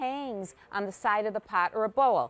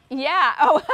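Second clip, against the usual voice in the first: laughing; 4 semitones higher, 9 dB louder than usual. Real, not acted. Laughs at host's remark.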